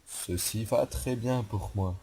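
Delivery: slow, stiff mock German accent; a lightly done German accent, word by word. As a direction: lay on a jokey German accent, slowly. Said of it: "faire full accent allemand".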